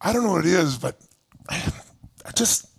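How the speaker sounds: low, soft sighing whine; imitating a gloomy fan; down and mopey. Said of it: "They'll go".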